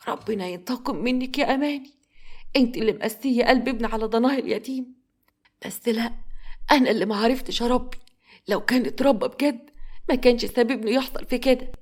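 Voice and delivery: a lightly voiced old woman, bitter and hurt; grieving grandmother. (جدة مقهورة بصوت خافت)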